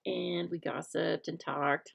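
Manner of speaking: slow conspiratorial whisper; whispered aside. Real, not acted. Host whispering a secret to her viewers about team dinner.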